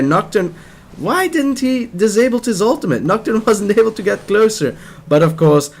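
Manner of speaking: high, loud hyped calling of the fight; excited commentary. Real, not acted. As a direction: yell the plays as they happen. Wild team fight, caster erupts.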